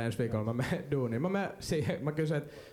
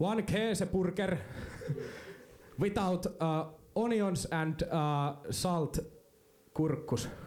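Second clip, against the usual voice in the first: firm, put-on Finnish accent in English; 3 semitones higher than usual. Retelling ordering at a burger counter, imitating firm Finnish mode. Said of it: "semmoiseen jämäkkään suomalaiseen moodiin".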